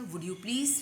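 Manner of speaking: slow, gentle polite asking; polite request. Shown as a demonstration. Someone politely asks a neighbour for the pen. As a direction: ask for the pen kindly and slowly. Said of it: "तो आप ये भी क्या".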